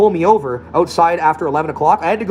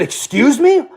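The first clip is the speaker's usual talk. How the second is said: mock shocked; 10 semitones higher, 3 dB louder, much slower than usual. Man taken aback by insult.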